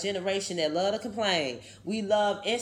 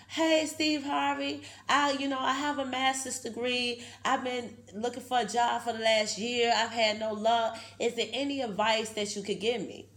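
imitating the lady; 3 semitones higher than usual. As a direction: play the hopeful woman asking for help. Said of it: "she was like".

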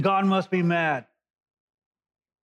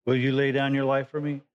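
asked lovingly; 3 semitones lower than usual. Retold or imitated. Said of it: "I think he asked it lovingly".

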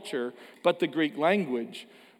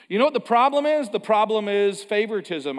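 mock insistent; 5 semitones higher, 5 dB louder than usual. Mock diagnosis set against real.

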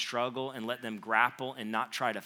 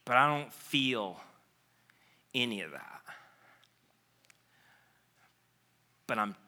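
sad Martha; 5 semitones lower than usual. Acted. Martha voiced, grieving.

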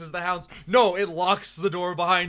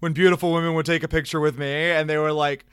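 mock paraphrase; 3 semitones higher than usual. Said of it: "he's saying, he's saying".

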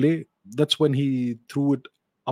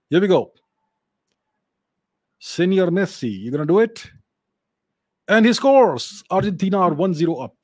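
frantic mock sports commentary; 4 semitones higher, 3 dB louder than usual. Live goal call, World Cup final.

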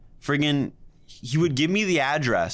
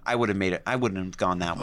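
lower, softer disapproving grumble; critical grandmother; 7 semitones lower, 3 dB quieter than usual. Retold or imitated. Grandmother in the car, low disapproving grumble. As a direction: nitpick the route. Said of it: "She's like".

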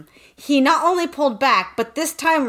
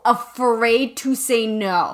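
slow quote; slower than usual. Retold or imitated. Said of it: "she is, quote".

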